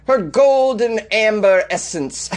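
"charm" drawn out high and falling, mock-seductive; hammed-up sultry read. Reading sultry beer ad copy.

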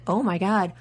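excited fan squeal, building to a shriek; screaming crying fan. Retold or imitated. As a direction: gush like an overjoyed fan, then scream. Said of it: "all of the fans were watching it going".

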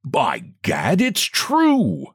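a sudden high cry of astonishment; excited gentleman. A narrator's reading. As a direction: blurt it out shaken. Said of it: "eyes dilated with excitement".

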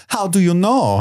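high-pitched incredulous quote; acted questioning. Woman questioning Indy in a retold scene, high mock query. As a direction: imitate her, pitched well up.

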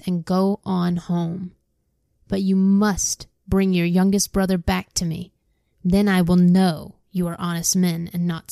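steady read-aloud storyteller voice; reading scripture aloud to listeners; story narration. Acted. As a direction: read the Bible story to the class. Reads Bible story aloud.

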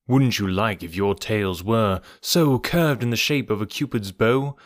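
lilting, rhythmic poem reading; verse recital. A narrator's reading. Narrator reciting the monkeys' road song, lilting verse. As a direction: recite with a playful bouncing swing.

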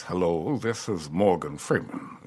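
thin voice with lip flap, slow; lightly voiced old Freeman with loose lips; older Morgan Freeman. Shown as a demonstration. Impressionist showing how Morgan Freeman sounds now, thin and flappy. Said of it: "So he sounds like this".

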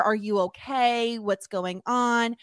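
slow, gentle check-in; comforting. Retold or imitated. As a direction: soothe her like a kind boyfriend. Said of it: "comforting her".

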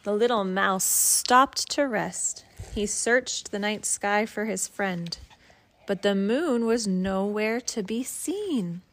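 gentle bedtime story read; reading to a child. Acted. Parent reads picture book aloud.

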